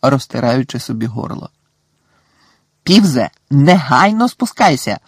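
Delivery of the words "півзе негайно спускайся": loud, stern shout of command; thundering order. A narrator's reading. Professor roars at Peeves to come down, angry. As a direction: boom it out to the ceiling. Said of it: "гримнула професорка МакГонегел".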